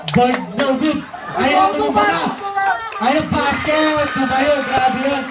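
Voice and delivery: brisk courtside game call; live play-by-play. Acted. Announcer calling the game to the Wildcat crowd, live play-by-play. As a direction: call the plays as they happen.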